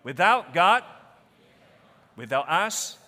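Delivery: congregation reading aloud together; a crowd speaking the words in unison; many voices in unison. Real, not acted. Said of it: "Why don't we read it aloud together?".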